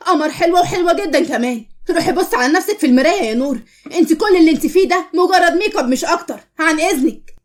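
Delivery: heated comeback, pitch lifted at its peak; indignant retort. Acted. Friend defends Qamar's looks against Nour, indignant. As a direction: put her firmly in her place.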